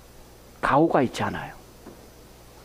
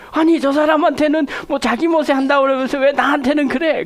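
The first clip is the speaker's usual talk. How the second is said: wife's indignant complaint; 7 semitones higher, 5 dB louder than usual. Retold or imitated. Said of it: "그렇게 얘기하는 거예요".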